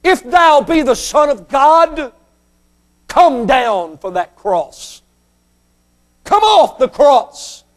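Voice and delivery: challenging jeer at full voice; preacher acting out a taunt; slanted taunt. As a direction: throw it out as a slow, pointed dare. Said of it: "make little slanted comments".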